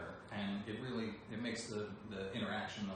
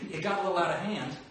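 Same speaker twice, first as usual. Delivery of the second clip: Snake voice; 6 semitones higher, 6 dB louder, faster than usual. Shown as a demonstration. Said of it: "here, this one".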